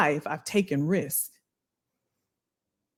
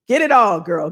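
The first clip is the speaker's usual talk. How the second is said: louder hype call to the viewer; excited hype; 6 dB louder than usual. Real, not acted. Cheering on a live commenter, excited and loud. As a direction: cheer her on loudly.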